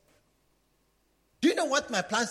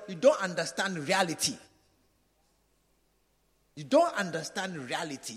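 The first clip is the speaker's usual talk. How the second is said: doubting church member; 4 semitones lower than usual. Acted. Preacher voices a struggling member doubting the pastor, low and grumbling.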